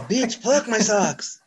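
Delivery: slow, high mock retort; drawn-out comic voiceover comeback; imitated arguing man. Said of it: "He's all".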